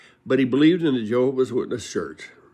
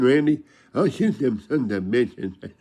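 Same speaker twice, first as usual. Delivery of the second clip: imitating Lane. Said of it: "And Lane goes".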